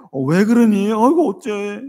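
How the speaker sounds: alarmed parent seeing his son cry; sudden fuss over a crying child; startled concern. Retold or imitated. Father reacts to crying son.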